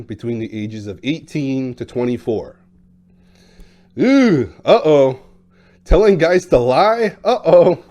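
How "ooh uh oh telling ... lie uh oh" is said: mock uh-oh. Mock alarm at controversial topic.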